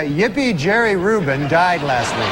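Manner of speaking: corrected cheery read. Shown as a demonstration. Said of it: "That should read".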